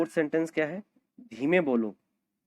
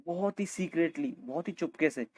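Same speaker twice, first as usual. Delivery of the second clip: hushed; 5 dB quieter than usual. Shown as a demonstration. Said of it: "बहुत छुप छुप के जाते हैं".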